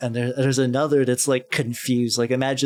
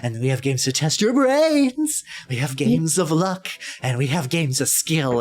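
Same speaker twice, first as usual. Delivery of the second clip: happy clown voice; 2 semitones higher than usual. Acted. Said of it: "clown continues".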